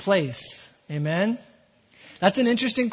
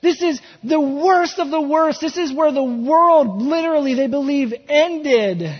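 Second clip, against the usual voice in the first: slow, loud, high cry; passionate shout; 7 semitones higher, 7 dB louder, slower than usual. Acted. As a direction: shout it out in anguish. Peter's passionate outcry voiced.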